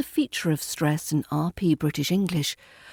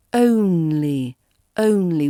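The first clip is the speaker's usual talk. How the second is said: only, falling away after a strong "own"; stressed own, soft lee; 5 dB louder, slower than usual. Shown as a demonstration. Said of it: "We stress the own and soften the lee".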